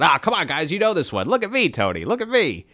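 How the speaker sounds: imitating an eager show-off friend; pleading friend. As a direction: beg the guys to watch you.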